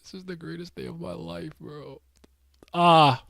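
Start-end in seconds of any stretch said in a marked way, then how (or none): 0.0-2.0 awed hush. Real, not acted. Awed by the panel.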